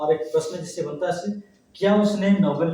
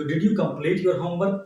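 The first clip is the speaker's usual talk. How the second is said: slow model sentence; much slower than usual. Shown as a demonstration. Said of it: "फिर देखते हैं".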